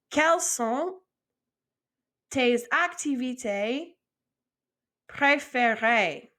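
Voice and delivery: slow, in chunks with pauses; chunked phrase. Shown as a demonstration. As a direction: split the question into word pairs. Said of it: "two words at a time".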